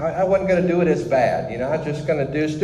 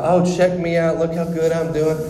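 mock boasting; 4 semitones higher than usual. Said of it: "it'd be all about me".

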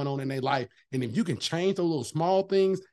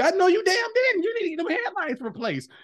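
retold snap back; 12 semitones higher, 3 dB louder than usual. Snapping back at his homegirl.

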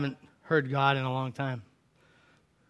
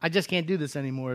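quiet despair; 5 dB quieter, faster than usual. Acted. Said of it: "Elijah cries out".

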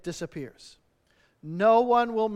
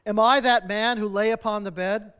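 mildly anguished cry, louder; 5 dB louder than usual. Acted. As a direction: cry out the question, pleading on your knees. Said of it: "he cried upon his knees".

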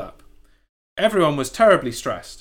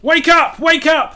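high, loud rooster yelling wake up; bossy rooster shout; 13 semitones higher, 9 dB louder, slower than usual. Acted. Narrator voicing the rooster waking the hens, loud high shout. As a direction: bark it like a bossy rooster rousing the farm. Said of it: "that rooster said".

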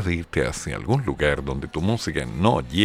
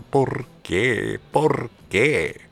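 high wailing por qué; mock wail; 10 semitones higher, 4 dB louder, much slower than usual. Host lamenting the song, high mock wail.

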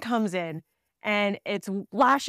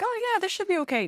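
much higher breezy mock optimism; mock naive confidence; 11 semitones higher, faster than usual. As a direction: play your past self as naively sure. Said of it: "We're like".

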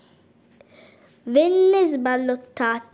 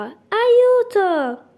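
higher and louder, a second desperate shout; desperate cry for help; 8 semitones higher, 6 dB louder than usual. A narrator's reading. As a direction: scream it even harder, going under. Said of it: "gridò".

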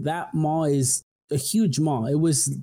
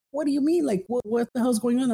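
confused alarm; 9 semitones higher than usual. Retold or imitated. Confused reply to panicked supervisor.

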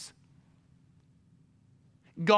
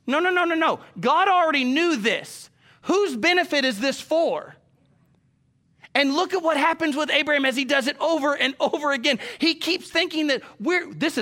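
preaching at full force; 8 semitones higher, 4 dB louder than usual. Real, not acted.

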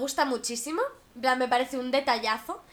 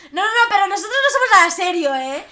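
mocking dismissive guy; 7 dB louder than usual. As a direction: brush it off like a noncommittal guy. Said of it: "Los chicos que te tratan como si fueras su novia".

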